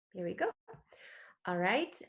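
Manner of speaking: whispered under the breath; half to herself, whisper it as she begins. Real, not acted. Presenter to herself while starting the slideshow, whispering.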